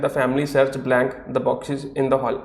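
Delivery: drawn-out dictation pace, leaving room for the blank; very slow read-out. Shown as a demonstration. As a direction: read it slowly so students can follow. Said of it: "second sentence क्या है?".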